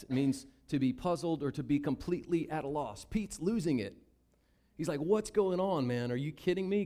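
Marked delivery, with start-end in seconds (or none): 5.0-6.8 higher, incredulous outburst; Peter bewildered. Acted. Peter baffled by God's vision, incredulous outburst. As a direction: pitch up in disbelief.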